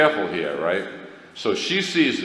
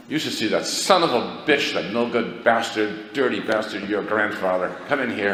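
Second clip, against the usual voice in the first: swearing wife; 2 semitones higher than usual. Retold or imitated. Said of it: "she's swearing".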